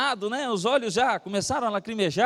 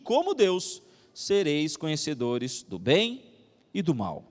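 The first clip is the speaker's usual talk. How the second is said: scripture reading; 2 semitones lower than usual. A narrator's reading. Preacher reading Genesis to the congregation, solemn scripture reading. Reads the Bible passage aloud.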